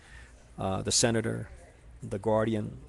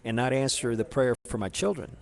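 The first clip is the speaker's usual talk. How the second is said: upset complaint; 2 semitones higher, 4 dB louder than usual. Retold or imitated. Questioning his savior, a touch of angry reproach. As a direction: push back with some indignation, then ease. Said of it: "kind of upset at it".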